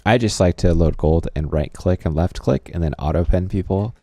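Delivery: dry, deadpan sarcasm; sarcastic. Acted. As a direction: say it straight-faced, not meaning it. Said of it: "Sarcasm, sarcasm".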